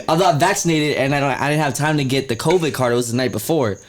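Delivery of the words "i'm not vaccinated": laughing admission. Real, not acted. Laughs at own excuse.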